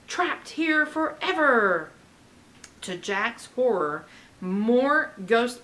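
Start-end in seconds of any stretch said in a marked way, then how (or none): 0.1-1.9 roar. Acted.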